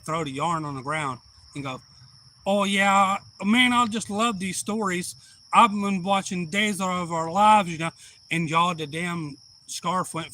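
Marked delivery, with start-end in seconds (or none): 2.5-7.9 higher, louder granny voice, chatting away; chatty granny. Retold or imitated. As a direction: imitate a chatty granny, pitched up and loud. Granny chats while knitting.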